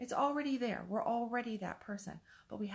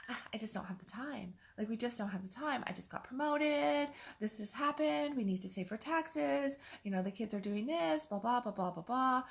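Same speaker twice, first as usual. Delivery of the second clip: dismissive spouse; 5 semitones higher than usual. Retold or imitated. Spouse brushing off a request for more intimacy, higher excuses. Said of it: "and they go".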